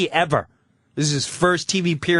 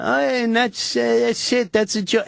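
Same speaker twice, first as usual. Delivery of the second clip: flustered wrap-up; 10 semitones higher than usual. Retold or imitated. Flustered ending of sketch.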